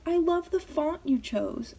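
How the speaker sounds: imitating high-pitched, slow gushing; ecstatic grandma. Grandma admiring granddaughter's tattoo, ecstatic. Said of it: "so ecstatic".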